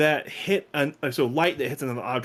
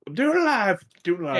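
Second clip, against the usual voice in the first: mock shout; 6 semitones higher than usual. Meme echo.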